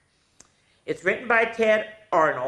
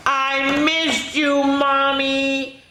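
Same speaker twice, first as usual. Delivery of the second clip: put-on high, slow, heartfelt child's voice; small voice, missed her mommy; tender little child; 10 semitones higher, 5 dB louder, much slower than usual. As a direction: say it to the mother you missed. Little donkey reunites with mother.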